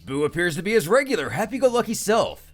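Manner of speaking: usual speaking voice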